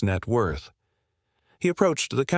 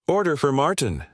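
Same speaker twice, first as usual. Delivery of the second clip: higher, raised callout across the counter; mild barista callout; calling out; 5 semitones higher than usual. Acted. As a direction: call the order to the customer. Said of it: "they called out".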